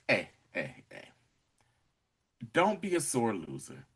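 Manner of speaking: soft, understated imitation of someone defusing a standoff; low, hushed "hey" to settle him; quiet placating. Retold calm plea to gunman.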